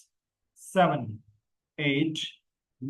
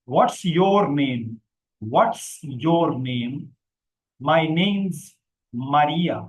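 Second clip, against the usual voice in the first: slow, loud, clearly enunciated read; model dialogue; 3 dB louder, much slower than usual. Shown as a demonstration. Teacher reads the dialogue aloud for the class, slow and loud. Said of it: "पहले पढ़ के सुना देता हूँ".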